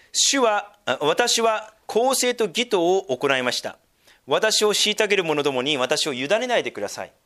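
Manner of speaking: 聖句を一語ずつ丁寧に読み上げる; 説教の中で聖書を厳かに朗読; 聖書朗読. Acted. Reads scripture aloud. (厳かな聖書朗読)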